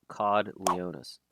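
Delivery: slow, low "Cod Leonis"; joke mispronunciation. Shown as a demonstration. Streamer joking how J J would pronounce it, deliberately mangled. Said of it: "find out a way to pronounce it".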